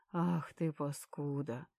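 ordinary delivery, nothing marked

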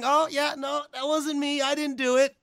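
high, mock-innocent denial; innocent Regal. Imitating Regal walking off for a friend, high, mock-innocent. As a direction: play innocent like a sly heel. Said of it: "Regal walks off going".

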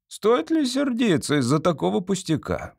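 high-pitched, placating question; smooth it over peaceably, pitched high; conciliatory. A narrator's reading. Judge pacifying the angry chairman, conciliatory. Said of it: "миролюбиво ответил судья Билл".

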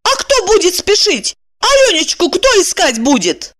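high, urgent indignant questions; indignant woman. A narrator's reading. Evdokia rebuking Kirillov over the search, high indignation. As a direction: demand it, pitched well up. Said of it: "опять возмутилась".

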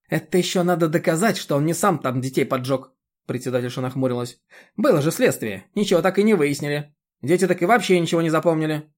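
high, loud scolding village busybody; a bossy chairwoman lecturing; indignant chairwoman. Acted. The chairwoman berates Roman about mowing, high and loud.

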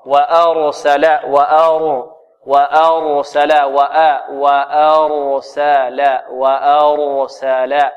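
slow drill of "وأرسل", full ر and thin س; heavy ra, light sin. Shown as a demonstration. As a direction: repeat "وأرسل" deliberately with emphatic ra, light sin. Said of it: "الراء مفخمة والسين مرققة". («وأرسل» براء مفخمة وسين مرققة)

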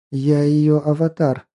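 slow, breathy confession; breathed out. Acted. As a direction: exhale the words slowly. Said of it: "выдохнула Персифона".

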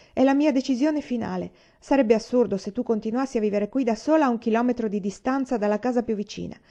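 firm resolve. Acted. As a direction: lay down the law, no argument.

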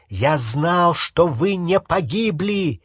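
sharp barking reply; barked. Acted. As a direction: snap back over her. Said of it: "рявкнул Рон".

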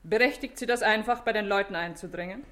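high, sharp challenge; affronted, high-pitched reproach; indignant. Acted. Woman confronts an intruding policeman.

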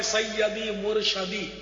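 "سیدی مرشدی" drawn out slowly with a-vowels, sayyadi murshadi; quoted slogan "سیدی مرشدی", slow, mispronounced with a for i; common wrong pronunciation. Retold or imitated. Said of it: "جیسے وہ نعرہ لگاتے ہیں".

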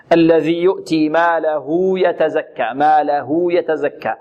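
ماله drawn to "maa-la-huu" before يتزكى; slow recitation, stretch the final u of ماله two beats; two-count lengthening. Shown as a demonstration. Teacher demonstrating the linked haa, lengthened vowel. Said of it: "بمقدار حركتين".

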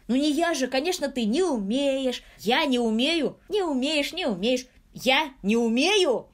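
high, loud back-and-forth bickering; childish squabble. Acted. Childish squabble between friends. (высокая громкая детская перепалка)

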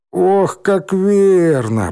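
high, slow, hammed-up moan; mock groan. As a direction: groan it out theatrically. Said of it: "простонал Рыжий".

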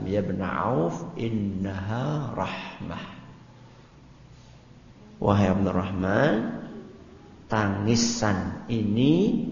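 slow, soft and tender; the Prophet's calm, slow reply to a surprised companion; gentle explanation. Retold or imitated. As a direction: reassure a puzzled companion gently. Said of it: "apa kata Nabi".

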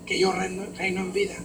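soft murmured thanks to God; hushed grateful prayer. Shown as a demonstration. Believer meditating and thanking God, soft murmur. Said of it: "Cuando tú empiezas a repetir".

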